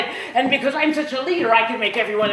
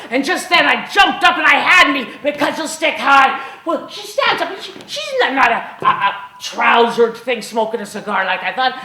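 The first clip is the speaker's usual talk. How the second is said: ordinary delivery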